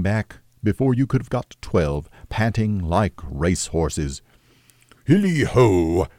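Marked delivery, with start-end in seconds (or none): 5.0-6.1 cheery call. Acted. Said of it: "cried old Fezziwig".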